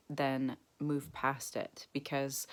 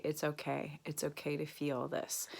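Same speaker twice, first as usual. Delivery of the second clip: softer, gentle words to yourself; soft self-reassurance; 6 dB quieter than usual. Shown as a demonstration. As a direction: comfort yourself quietly, no rush. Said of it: "allowed myself to say".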